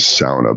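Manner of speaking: "sauna" said SOW-nuh; Americanized pronunciation. Shown as a demonstration. Giving the Americanized version, "sauna" as SOW-nuh. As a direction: say "sauna" with "ow" as in cow. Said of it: "the Americanized pronunciation of it".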